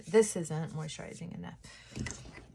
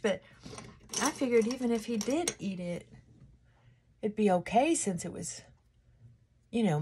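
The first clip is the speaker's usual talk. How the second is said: neighbor's breezy voice; 5 semitones higher than usual. Retold or imitated. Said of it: "She was like".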